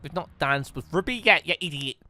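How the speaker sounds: ordinary talk, nothing marked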